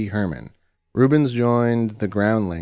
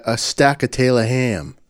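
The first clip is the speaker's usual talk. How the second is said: put-on New Jersey accent. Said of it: "I say".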